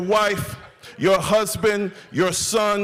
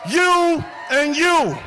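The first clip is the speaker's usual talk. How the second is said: rally hype speech; 6 semitones higher than usual. Real, not acted. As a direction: fire up the crowd, voice raised, word by word. Fires up the rally crowd.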